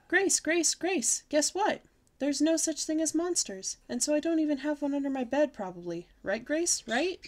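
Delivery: put-on high, loud, eager child calling her friend; excited calling out. Girl calls to her friend on the bus, eagerly. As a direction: pester her for a yes.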